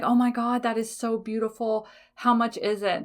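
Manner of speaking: gushing. Retold or imitated. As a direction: she gushes over a gem to the seller. She gushes over a gemstone.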